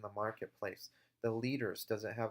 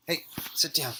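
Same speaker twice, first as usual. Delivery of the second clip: firm command; 5 semitones higher, 7 dB louder than usual. Real, not acted. Commanding the dog.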